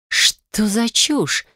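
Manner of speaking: almost laughing at the absurdity; incredulous. Acted. Amalia hearing she gave away the factory, incredulous. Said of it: "Я чуть не рассмеялась".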